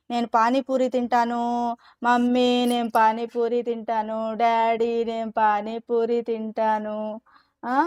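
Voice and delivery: slow drawn-out mock whine for pani puri; whining child. A child nagging mummy and daddy for snacks, hammed-up whine. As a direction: stretch each plea like a fussy kid. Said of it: "అని ఏడుస్తున్నారా మీరు?".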